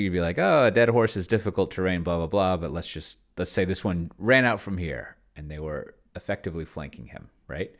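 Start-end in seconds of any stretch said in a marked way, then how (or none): 0.4-2.6 mock rules stickler. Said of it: "if you were being a sickle".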